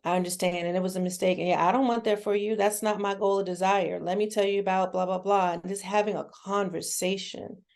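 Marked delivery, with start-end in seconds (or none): 0.0-5.5 mild, measured reassurance; calm parent. Acted. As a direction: talk it through calmly, without judgment. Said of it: "a calm conversation".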